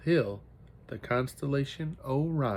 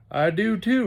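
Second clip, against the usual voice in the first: retorting; 9 semitones higher, 6 dB louder than usual. A narrator's reading. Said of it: "retorted Johnny".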